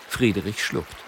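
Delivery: ordinary delivery, nothing marked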